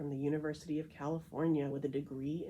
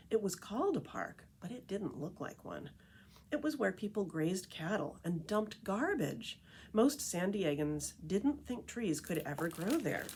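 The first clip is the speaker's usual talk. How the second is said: lively picture-book read-aloud voice; story narration; 2 semitones higher than usual. A narrator's reading. Reading The Tree Lady to listeners, storytelling narration. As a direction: read it like a storyteller to a group of kids.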